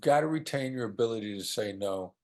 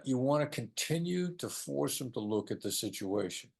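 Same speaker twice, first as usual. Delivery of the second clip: ordinary delivery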